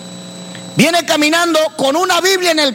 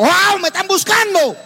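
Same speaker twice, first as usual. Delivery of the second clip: emoción al recordarlo; 5 semitones higher than usual. Retold or imitated. Oye los helicópteros, alivio.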